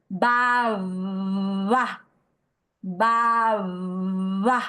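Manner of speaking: BABA with a long buzzing second b; fricative b. Shown as a demonstration. Teacher shows students the intervocalic b, drawn-out fricative b. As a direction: stretch the middle b of BABA through loose lips. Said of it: "la pronunciaríamos como fricativa".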